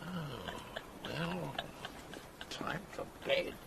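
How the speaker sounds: tired whispered sigh of a line; whispering. Acted. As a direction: barely voice it, worn out. Weary aside after the row.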